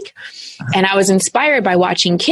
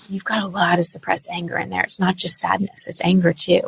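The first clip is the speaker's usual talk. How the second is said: soft coach voice; 6 dB quieter than usual. Retold or imitated. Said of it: "She said".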